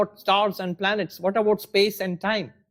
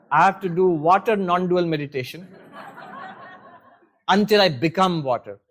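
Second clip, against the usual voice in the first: chuckling through the words; laughing. Real, not acted. Teacher laughing at his own struggle, chuckling. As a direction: laugh at yourself while confessing it.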